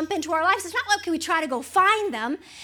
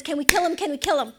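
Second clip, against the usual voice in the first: eager king; faster than usual. Retold or imitated. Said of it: "quite excited about this".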